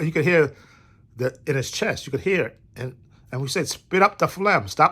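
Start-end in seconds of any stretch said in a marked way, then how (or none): 3.7-4.9 higher-pitched exasperated command; mock-urge him to get it out, pitch raised; retold urging. Telling his coughing friend to spit, retold urging.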